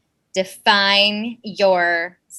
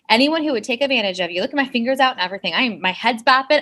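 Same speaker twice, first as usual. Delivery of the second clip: fast, worked-up sassy rant; much faster than usual. Real, not acted. Telling off people who take advantage, sassy. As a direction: rattle it off with sass. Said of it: "She's sassy".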